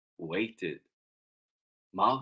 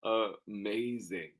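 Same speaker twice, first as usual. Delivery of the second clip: slow, softer, at normal pitch; understated; 7 dB quieter, slower than usual. Acted. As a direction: draw it out quietly, without exclaiming. Same word, second reading.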